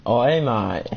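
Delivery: mock Aussie. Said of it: "We get it, you're Aussie".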